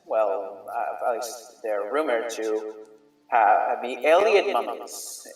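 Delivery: lightly voiced shrugging merchant; a touch of a casual merchant; merchant NPC.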